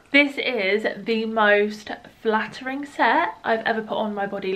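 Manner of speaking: breathless after running up stairs; out of breath. Real, not acted. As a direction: speak through heavy breathing, out of breath. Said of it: "firstly I'm out of breath".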